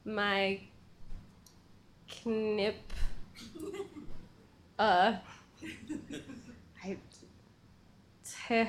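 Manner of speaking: halting backwards talk; backwards speech. Pretend. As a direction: say the words in reverse, slowly. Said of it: "Can you just say, "I'm wearing a pink shirt," backwards?".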